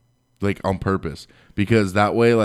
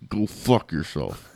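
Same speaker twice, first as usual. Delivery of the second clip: low, slow, quietly seething curse; cold curse; 3 semitones lower, 3 dB quieter, slower than usual. Retold or imitated. Coworker cursing him out, cold and slow. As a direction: through a clenched jaw, slow and low. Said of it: "He clenches his jaw".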